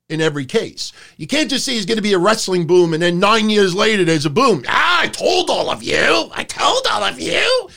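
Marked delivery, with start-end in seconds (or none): 4.7-7.7 high, nasal-free mock gloat in a put-on voice; mock the smug know-it-all, pitch climbing. Mocking smug predictor.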